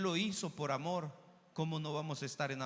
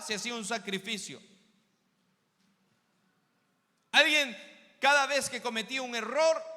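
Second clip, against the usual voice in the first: loud, lifted preaching voice; forceful pulpit proclamation; impassioned preaching; 4 semitones higher, 6 dB louder than usual. Acted. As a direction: drive the argument home to the congregation.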